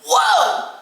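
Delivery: high, loud startled exclamation; shocked. Retold or imitated. Retelling seeing the wrist on camera, loud shock. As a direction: jump up in pitch with alarm.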